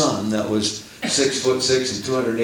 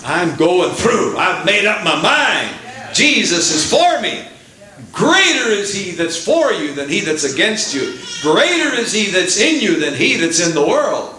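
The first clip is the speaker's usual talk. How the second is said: defiant declaration; 5 semitones higher than usual. Retold or imitated. Believer facing a trial declaring victory, bold and defiant. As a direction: proclaim it standing tall against the trial. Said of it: "stand up on your hind legs and say".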